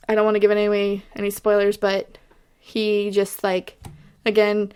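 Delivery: talking through hiccups; fighting back hiccups while speaking. Real, not acted. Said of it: "I have the hiccups".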